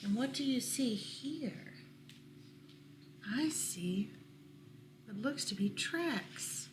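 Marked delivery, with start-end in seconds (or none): 3.3-6.7 soft whispered answer. Real, not acted. Reader whispering while looking at the picture. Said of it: "whispered reply".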